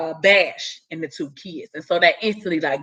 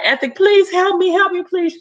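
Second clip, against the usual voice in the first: mock screaming plea; 10 semitones higher than usual. Retelling the heroine screaming for Ethic's help, high hammed-up wail. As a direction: scream it like a drama queen. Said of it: "she's screaming and hollering".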